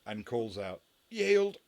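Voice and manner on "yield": loud, high cry of surrender; yelled surrender. Acted. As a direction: call it out in a sudden high yell. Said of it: "with a, a yell".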